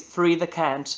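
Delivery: Farida Kent run together quickly, first vowel swallowed; "Farida Kent" said as one quick word; said fast. Shown as a demonstration. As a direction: slur "Farida Kent" so it sounds like "free the Kent". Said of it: "if you say it fast".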